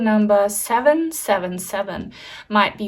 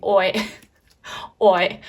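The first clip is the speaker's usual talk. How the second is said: Cockney. Retold or imitated. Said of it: "So are you Cockney or something?".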